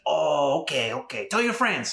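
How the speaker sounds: high mock Asian accent, cheerful send-off. Vendor lady sending him off to tell friends, mock Asian accent. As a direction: give up the sale like the vendor lady. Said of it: "excuse my terrible accent".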